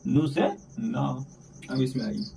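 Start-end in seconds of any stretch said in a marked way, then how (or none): 0.1-1.2 each syllable drawn out for pupils; slow teaching drill. Shown as a demonstration. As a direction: say it slowly so the class can repeat. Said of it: "teacher drilling letter names". (धीमी आवाज़ में अक्षर सिखाते हुए)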